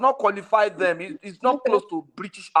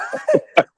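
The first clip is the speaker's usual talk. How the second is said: breathy high laugh; 4 dB louder than usual. Real, not acted. Panelist joking about everyone speaking like Prince Daddy, breathy laugh. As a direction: burst out laughing at the joke.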